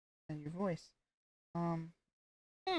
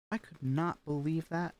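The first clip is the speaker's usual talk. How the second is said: sarcastic falling; 2 semitones lower than usual. Shown as a demonstration. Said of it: "sarcastic with it if you go down".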